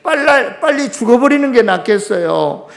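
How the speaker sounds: loud, high-pitched lament to God. Acted. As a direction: cry out in bitter protest as Job. 욥의 원망을 대신 말함. (원망 섞인 높은 목소리로 따지듯)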